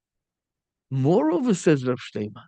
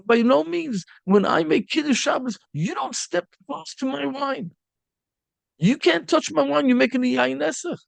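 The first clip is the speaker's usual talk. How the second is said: higher, stern scolding of a proud student; harsh rebuke; 5 semitones higher than usual. Retold or imitated. Rabbi harshly rebuking an arrogant student, indignant and cutting. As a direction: drive the boy away in disgust. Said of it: "that harsh".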